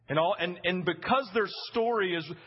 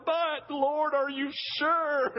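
higher, drawn-out doubtful plea; doubting wife; 5 semitones higher, much slower than usual. Retold or imitated. Preacher voicing wives questioning God's plan, drawn-out doubt. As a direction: stretch it out in comic misgiving. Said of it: "this great moment that most wives do".

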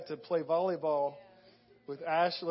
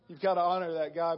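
louder, insistent demand on God; emphatic plea; 5 dB louder than usual. Retold or imitated. Retelling his prayer for his knee, louder and insistent. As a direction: press it out boldly, insisting. Praying aloud to God, retold.

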